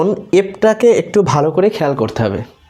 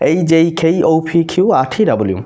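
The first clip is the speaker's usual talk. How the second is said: in one breath; faster than usual. Shown as a demonstration. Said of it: "এইভাবে একত্রে practice করবেন".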